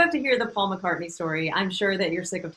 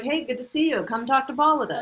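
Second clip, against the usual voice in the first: higher-pitched, welcoming hello; pretend friendly greeting; 3 semitones higher than usual. Inviting a friend to join the chat, pretend welcoming. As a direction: act out welcoming someone into the group.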